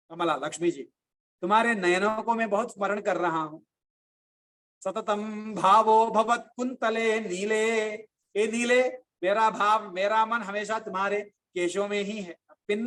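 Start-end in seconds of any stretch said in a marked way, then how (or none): 4.8-7.7 slow, measured Sanskrit chant; slow Sanskrit verse recital; shloka recitation. Acted. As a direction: recite the verse with devotion, slowly. Quotes shloka line.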